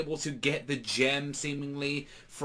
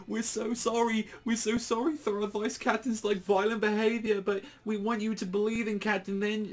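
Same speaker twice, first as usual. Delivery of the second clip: much higher put-on voice, anxious and pleading; grovelling apology; 7 semitones higher than usual. Golden Dawn knights plead with angry Yami in a high, grovelling voice. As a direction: beg forgiveness, voice pitched way up.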